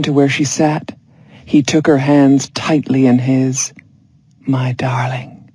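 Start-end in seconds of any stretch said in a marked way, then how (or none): 4.5-5.5 slow, breathy whisper. A narrator's reading. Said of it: "he whispered".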